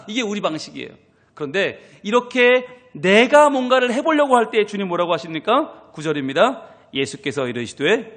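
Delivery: normal talking voice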